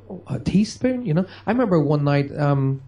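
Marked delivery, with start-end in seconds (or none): 0.1-1.1 high, let-down "Oh, a teaspoon"; mock someone unimpressed by a teaspoon; dismissive surprise. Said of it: "Rather than you going".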